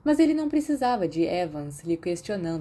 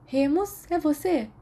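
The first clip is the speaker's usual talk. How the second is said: higher, surprised call across the room; a girl calling across the bathroom; lightly voiced girl calling; 10 semitones higher, slower than usual. A narrator's reading. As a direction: call out to check who's there.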